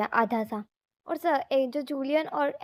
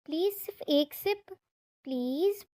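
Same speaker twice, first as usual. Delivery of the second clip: sweet pleading; 2 semitones higher than usual. A narrator's reading. Little Tilly sweetly begging Julian for a sip of coffee, lovingly pleading. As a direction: coax him sweetly for just one sip. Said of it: "वो बहुत प्यार से बोलती है".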